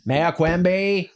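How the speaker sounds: teacher tries Mayor Quimby voice, slow Boston drawl; Mayor Quimby impression. Shown as a demonstration. Teacher names the cartoon mayor, drawn-out Boston voice. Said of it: "not the best impersonation of him".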